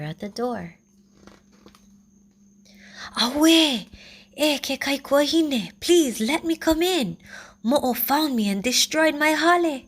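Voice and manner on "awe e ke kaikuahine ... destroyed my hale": high, loud pleading piglet voice; crying little brother. A narrator's reading. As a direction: beg to be let in, high and upset. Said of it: "he cried".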